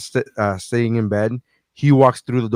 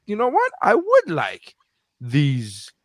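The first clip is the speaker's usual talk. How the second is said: excited. Retold or imitated. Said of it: "I'm like".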